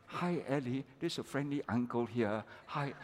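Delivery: put-on soft, gentle words to calm a crying baby; soothing a toddler. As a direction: coax the little one quietly, friendly uncle.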